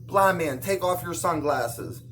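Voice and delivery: showman announcing. Pretend. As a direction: present the miracle to the crowd. Jesus showing off to crowd.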